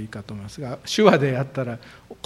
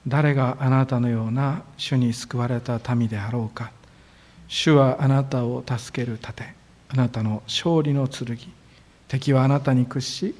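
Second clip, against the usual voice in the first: scripture reading. Acted. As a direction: proclaim the verse to the church. Reads the year's scripture verse.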